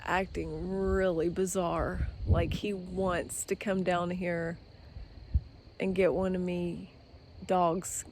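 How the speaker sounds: hushed unvoiced whisper. Real, not acted. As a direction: whisper it so the hawk won't hear. Hawk circling, whispering nervously.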